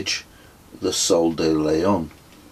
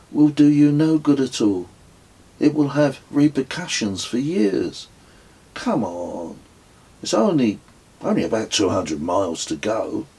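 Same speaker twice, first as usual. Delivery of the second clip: urgent coaxing; 5 semitones higher than usual. Acted. Narrator pleads with sulking Kez.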